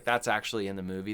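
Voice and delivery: ordinary talk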